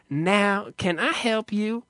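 lightly effeminate clerk greeting, lifting at the end; feminine male clerk. Retold or imitated. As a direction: imitate the campy clerk, pitch up on the question. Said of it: "He's like, he said".

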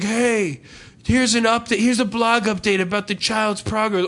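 mock a too-friendly blog announcement; put-on perky spammer voice; chirpy scam pitch. Voices the scammers' cheery pitch.

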